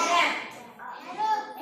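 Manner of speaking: stretched-out teacher demo; very slow model word. Shown as a demonstration. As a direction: drag रॅप्ट out with a slow rise. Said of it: "काय झाला?". (रॅप्ट खूप सावकाश)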